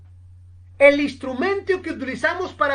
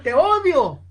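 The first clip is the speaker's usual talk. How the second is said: louder hateful yell; retold shout; 3 semitones higher, 4 dB louder than usual. Francis shouts again at the echo, louder yell. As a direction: push the volume up. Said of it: "volvió a gritar".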